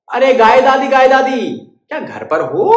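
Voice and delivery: high, loud bird calling. Acted. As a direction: call to the mouse at his door. Bird calling cow granny.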